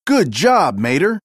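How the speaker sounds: praising a friend for a clue; exclaiming. Acted. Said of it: "Holly exclaimed".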